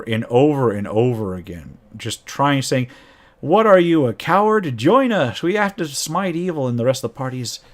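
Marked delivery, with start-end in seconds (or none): 3.4-6.7 haranguing. Retold or imitated. Paladin badgering the Solar, mildly mock haranguing. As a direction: needle the angel into joining. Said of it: "he starts just haranguing this".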